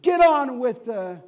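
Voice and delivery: loud, high barked demand; impatient yell. Acted. A man in the crowd yells at the auctioneer, loud and high. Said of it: "another man in the crowd said".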